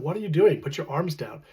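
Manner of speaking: a touch sharper, telling him to stop; insistent repeat. Retold or imitated. Wife repeats, more insistent.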